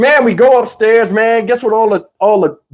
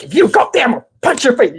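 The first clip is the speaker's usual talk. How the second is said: higher-pitched mock threat; raised-pitch scolding threat; retold threat; 4 semitones higher, much faster than usual. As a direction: warn a child off as a bossy uncle. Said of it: "He's like".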